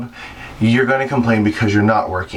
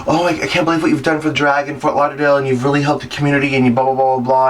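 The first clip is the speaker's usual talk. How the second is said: fast, rushing fan praise; gushing fan; 4 semitones higher, faster than usual. Retold or imitated. A fan praising the queen's community work, fast and gushing. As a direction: pour out the compliments quickly. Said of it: "And he's like".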